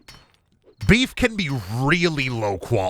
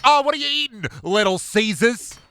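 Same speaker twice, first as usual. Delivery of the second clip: mocking; 10 semitones higher than usual. Mocking chat reading.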